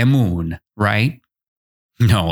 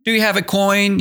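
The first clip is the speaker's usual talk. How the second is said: higher, pleading beggar's question; teacher voicing a beggar, pleading and higher; beggar asking; 8 semitones higher, faster than usual. Shown as a demonstration. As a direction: plead for a coin.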